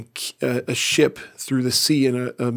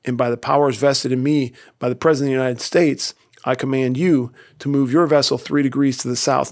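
irate captain. Retold or imitated. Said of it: "The captain is irate by this time".

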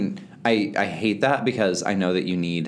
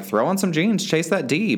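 higher, louder gung-ho call; mock-hyped younger self, higher and louder; eager younger self; 10 semitones higher, 4 dB louder than usual. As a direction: egg yourself on to go out. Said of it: "I would have been like".

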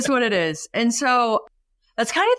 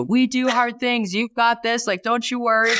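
parent pep talk; 3 semitones higher than usual. Retold or imitated. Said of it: "that parent pep talk that we do".

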